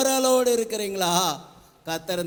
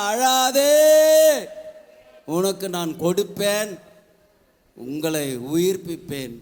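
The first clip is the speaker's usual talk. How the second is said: God's voice; 4 dB louder than usual. Acted. Preacher voices God's comforting words.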